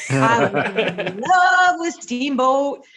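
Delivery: slow, breathless gasp into a dreamy love confession; swooning gasp. Retold or imitated. Recalling her childhood wrestling crush, swooning slowly. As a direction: swoon over him with a gasp and a giggle. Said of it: "I'd be like".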